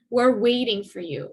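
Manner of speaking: waiting stressed, falling after it. Shown as a demonstration. Teacher showing the focus on waiting. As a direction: hit waiting as the main verb. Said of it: "Waiting is the main verb, and that is the one that's emphasized".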